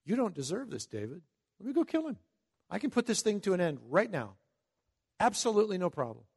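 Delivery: a hint of a pushy soldier offering to kill; mild mock eagerness; eager soldier. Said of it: "what Abishai was saying to him".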